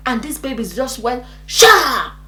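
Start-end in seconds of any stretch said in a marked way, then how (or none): 1.5-2.1 quick bursting "sha"; imitated whoosh. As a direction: sound out something shooting out. Imitates baby shooting out.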